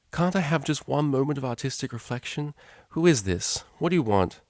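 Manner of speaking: annoyed at being interrupted; irritated. Acted. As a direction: Octavia answering an unwanted call. Annoyed answer to phone.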